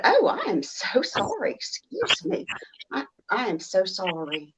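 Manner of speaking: overdone Southern apology; southern accent. Retold or imitated. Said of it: "I have to accentuate my accent".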